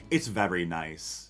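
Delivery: "very" said with a slight regional affectation; affected "very". Retold or imitated. Streamer mimicking their own way of talking, affected "very". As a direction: lean on the odd vowel in "very". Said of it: "why do I say very".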